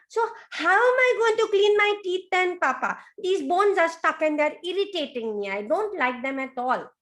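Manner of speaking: put-on high, near-crying child voice; high whining baby croc; whiny baby crocodile. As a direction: whimper the complaint.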